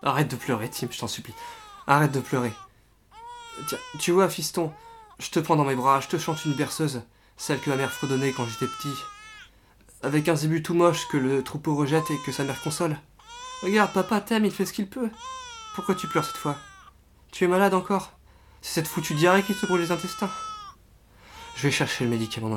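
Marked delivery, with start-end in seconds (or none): 0.0-2.5 desperate pleading. Acted. Father begging crying baby. 3.7-20.3 higher, louder, voice near tears; frantic, tearful. Acted. A desperate father rocking his screaming son, close to tears.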